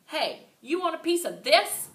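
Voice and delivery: high, loud challenge; girl shouting at the laughing class; mad shout. A narrator's reading. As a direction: dare them to come at you. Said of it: "I shouted real mad".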